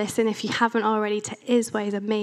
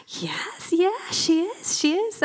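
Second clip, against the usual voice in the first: forced agreement; 8 semitones higher, slower than usual. Retold or imitated. Forced agreement about Sally.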